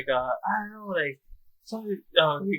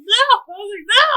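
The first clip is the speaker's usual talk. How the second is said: mock cry of no; 8 dB louder than usual.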